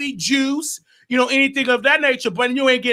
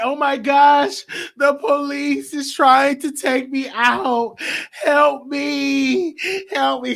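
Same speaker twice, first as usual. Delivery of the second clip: mock panicked cry; 4 semitones higher, slower than usual. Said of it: "she was like".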